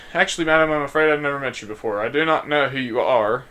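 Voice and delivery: put-on posh British accent. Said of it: "I'm messing up these accents".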